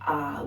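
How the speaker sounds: R as a long "ah" sound; elongated A. Shown as a demonstration. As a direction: draw R out as an open, held vowel. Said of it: "We elongate that A sound".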